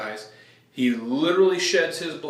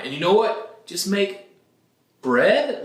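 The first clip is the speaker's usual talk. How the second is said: higher, louder, cheeky demand for bread; pushy demand; 5 semitones higher, 3 dB louder than usual. Retold or imitated. Preacher voicing the crowd demanding bread from Jesus, cheeky demand. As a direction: ask like it's obvious and easy.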